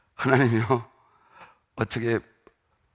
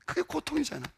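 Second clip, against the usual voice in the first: high emphatic cry; 5 dB quieter than usual. Shown as a demonstration. Repeated, second one whispered.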